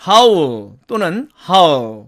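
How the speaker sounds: "howl" as "hau-l", then reduced to "hal"; contracted how'll. Shown as a demonstration. Teacher shortening how will, contracted. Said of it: "이렇게 발음이 되고요".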